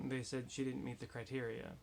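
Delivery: muffled behind a face mask; talking through a mask. Real, not acted. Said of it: "I'm wearing a mask right now".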